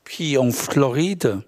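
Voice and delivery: measured poem recital, pausing between phrases; poetry reading. Acted. Poet reads daily anaphora poem to an audience, measured recital. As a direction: read it as a poem, line by line with pauses.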